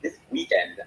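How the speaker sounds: "This weekend" set apart with emphasis; emphasize "This weekend" as the topic; stress on WEEKEND. Shown as a demonstration. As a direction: lean on "This weekend" to mark it as what matters. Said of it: "emphasis on the word".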